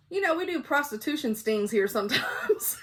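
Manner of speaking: words shaken by giggles; laughing through the quote. Retold or imitated. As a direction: quote the husband while breaking into laughter. Retelling husband's joke while laughing.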